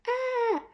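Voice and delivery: high-pitched "aah" without real volume; mock yell. A narrator's reading. Shadows yelling back at the mouse, high mock yell. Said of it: "yelled the shadows".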